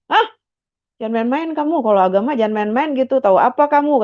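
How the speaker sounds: shocked husband. Retold or imitated. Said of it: "Kaget nih Pak Nenggolan".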